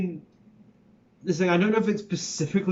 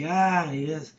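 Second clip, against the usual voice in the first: higher, kvetching Jewish New Yorker; Jewish New York accent; 4 semitones higher than usual. Shown as a demonstration. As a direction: put on a Woody Allen-style New York accent. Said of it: "then you got the Jewish one".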